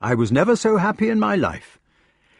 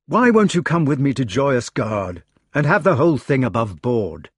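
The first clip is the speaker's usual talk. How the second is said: raised, higher-pitched desperation; desperate; 5 semitones higher, 5 dB louder than usual. A narrator's reading. Lancelot pleading with Jenny to come away, desperate. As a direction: plead urgently, louder and pitched up. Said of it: "he said desperately".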